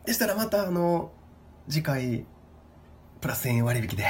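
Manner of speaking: high, overly polite clerk; polite staff voice. Pretend. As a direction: offer it like a prim receptionist. Staff role continues.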